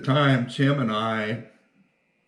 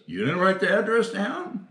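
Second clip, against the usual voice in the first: disbelief; 11 semitones higher than usual. Retold or imitated. Partner realizing nobody wrote the address, high incredulous question. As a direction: question jumps much higher in alarm.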